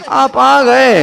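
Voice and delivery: आप आ गए without any honour; dismissive acknowledgement of an arrival; disrespectful greeting. Shown as a demonstration. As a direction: greet with the respect gone. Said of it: "यहां पर तकरीम तो गई".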